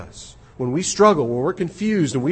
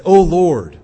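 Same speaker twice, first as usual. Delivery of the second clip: retold anguished prayer cry, louder and higher; 4 semitones higher, 10 dB louder than usual. A sinner trying to pray again, crying out. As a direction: call out to God as the struggling man did. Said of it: "he cried out".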